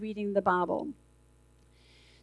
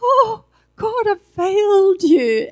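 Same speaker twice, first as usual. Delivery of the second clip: half-laughing mock sob, louder and slow; mock crying; 7 semitones higher, 9 dB louder, slower than usual. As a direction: ham up a tearful plea to God. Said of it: "picture of me going".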